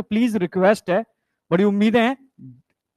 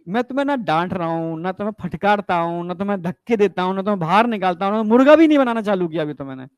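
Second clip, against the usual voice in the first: reassuring; 4 semitones lower than usual. Real, not acted. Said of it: "तो तुम डर क्यों रहे हो?".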